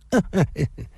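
cold laugh. A narrator's reading. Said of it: "冷笑地说道".

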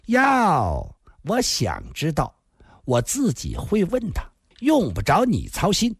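a hint of a haughty man-eater; lightly voiced brazen woman, dismissive. Fat woman telling a nosy girl to butt out, lightly dismissive. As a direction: brush the girl off with drawn-out relish.

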